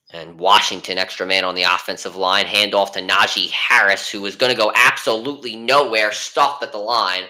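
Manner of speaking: live football play-by-play call. Acted. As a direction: call the action like a broadcaster.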